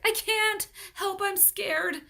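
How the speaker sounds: high, loud and frightened; scared cry. A narrator's reading. Paul tells Leslie he is scared, high and loud. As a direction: voice it terrified.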